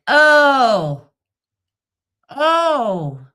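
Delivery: loud, high fake gasp of disapproval; mock shocked gasp. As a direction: gasp like you caught someone. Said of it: "and be like".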